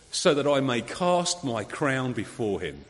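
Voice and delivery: slow, reverent reading of the quote; quoted with reverence. Retold or imitated. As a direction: lay each word down slowly. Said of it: "this is the direct quote from Queen Victoria".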